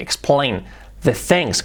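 "explain" with firm L, "things" near THENGS; slow English model of "explain the things"; strong L. Shown as a demonstration. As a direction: draw out "explain", L clearly sounded. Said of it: "la L fuerte".

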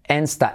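"Insta" starting like "ens". Shown as a demonstration. Teacher explaining the vowel, "Insta" as "ensta". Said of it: "I como E".

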